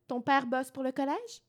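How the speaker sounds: slow, prissy put-on France French accent; mock French accent. Podcaster mocks a film character's fake France French accent, slow and prissy. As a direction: mimic a snooty French girl, drawn out slowly. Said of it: "pointue avec une petite voix aiguë".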